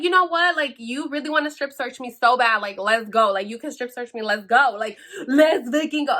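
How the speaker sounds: retold fed-up challenge, punched at the end; hella mad. Daring the officer to strip search her, mad. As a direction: dare them to get on with it. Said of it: "Like, I was hella mad".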